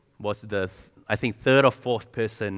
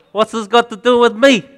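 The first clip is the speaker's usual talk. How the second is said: put-on high, loud teenage whine with a laugh; sulky teenager; 11 semitones higher, 11 dB louder than usual. Shown as a demonstration. Preacher mocking a teenage Jesus, whiny and loud. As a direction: whine it back like a bored teenager. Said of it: "and your best teenager voice".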